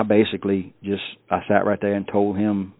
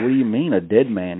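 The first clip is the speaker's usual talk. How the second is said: startled; 2 semitones higher, 4 dB louder than usual. Retold or imitated. Retelling shock at Phil's words.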